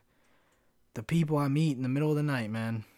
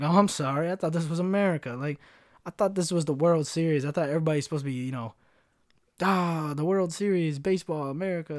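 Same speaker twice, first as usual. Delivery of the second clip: higher, louder, indignant cartoon dad; Randy Marsh; 5 semitones higher, 5 dB louder than usual. Quoting Randy Marsh's outrage at the Applebee's waiter, high and loud. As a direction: go full outraged sitcom dad, pitched up. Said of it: "fucking Randy Marsh".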